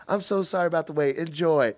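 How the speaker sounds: quick, lightly sweet apology. Retold or imitated. The cook apologises for the wait, lightly sweet. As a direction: hand it over kindly. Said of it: "So sweet".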